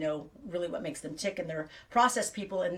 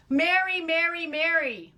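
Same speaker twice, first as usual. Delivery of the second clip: high, loud, stretched-out greeting; delighted high-pitched hail, slowing down; exuberant name-calling; 9 semitones higher, 6 dB louder, slower than usual. Real, not acted. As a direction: call the name out in a lilting sing-song.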